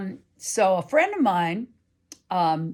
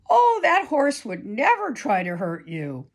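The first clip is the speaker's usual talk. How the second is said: higher, breezy reassurance; dismissive friend; 5 semitones higher, 4 dB louder than usual. Retold or imitated. Friend dismissing Katie's scare, breezy and higher. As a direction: brush off the worry lightly. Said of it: "she said something like".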